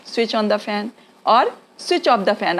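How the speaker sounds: very slow, each word laid out clearly; slow teaching demo. Shown as a demonstration. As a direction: spell the phrase out slowly for learners. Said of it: "बोलिए".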